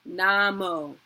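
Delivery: Namo with NA hit and falling; stressed first syllable. Shown as a demonstration. Teacher demonstrating mantra word stress, clear. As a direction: say Namo, leaning on NA. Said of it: "let's do the first two words".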